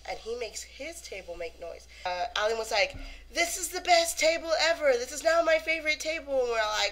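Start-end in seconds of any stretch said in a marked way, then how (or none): 3.3-6.4 mock enthusiasm. Imitates Alan praising the table.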